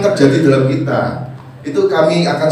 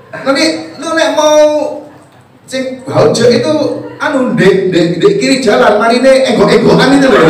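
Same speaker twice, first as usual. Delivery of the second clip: higher, slow mock Surabaya directions; imitating Surabaya dialect; 5 semitones higher than usual. Preacher mimics a Surabaya local giving directions, high and slow. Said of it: "lu nek ngomong kan anu".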